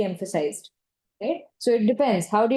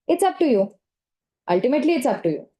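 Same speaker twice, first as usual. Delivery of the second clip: curt sarcastic brush-off; dismissive, sarcastic; 3 semitones higher, faster than usual. Shown as a demonstration. Counsellor demoing a dismissive sarcastic tone to a client. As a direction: toss it off like you couldn't care less. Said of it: "That is a very dismissive and sarcastic tone".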